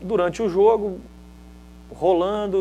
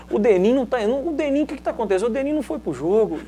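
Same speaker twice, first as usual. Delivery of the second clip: exasperated coach; 8 semitones higher, faster than usual. Retold or imitated.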